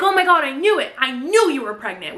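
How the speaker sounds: mock-giddy high squeal; excited gushing. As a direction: gush like a giddy friend. Women gush over Nina's news.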